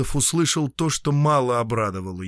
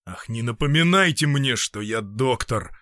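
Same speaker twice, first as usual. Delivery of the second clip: a touch of bitter despair, slowing at the end; despairing, harsh. Acted. Doctor rejects being reminded he is a doctor, mildly despairing. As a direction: push her reminder away, understated. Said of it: "с отчаянием жестоко сказал Полозов".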